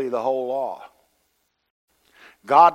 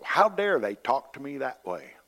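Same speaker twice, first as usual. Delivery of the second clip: mock indignation. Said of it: "your hackles get up".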